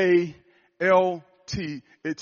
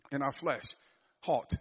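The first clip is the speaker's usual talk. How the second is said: In our flesh said again much softer; soft echo; 2 semitones lower, 7 dB quieter than usual. Shown as a demonstration. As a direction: let In our flesh fall away quietly.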